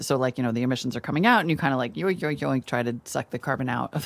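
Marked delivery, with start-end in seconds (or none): 1.9-3.9 cartoon voice. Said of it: "I'm just really talking like a cartoon today".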